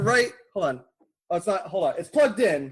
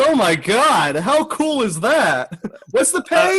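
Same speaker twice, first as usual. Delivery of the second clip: sarcastic enthusiasm; 4 semitones higher, 3 dB louder than usual. Retold or imitated. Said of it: "I literally was like".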